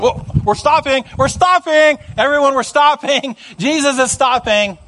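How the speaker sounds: high, flustered calls to halt; hammed-up crowd pulling up short; comedy-movie crowd. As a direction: pass the halt along like slapstick. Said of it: "just like an old comedy movie".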